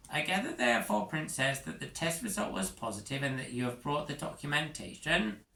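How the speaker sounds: stiffly polite to royalty; nervous official being very proper; prim Prongle. Acted. Prongle addresses the princess formally.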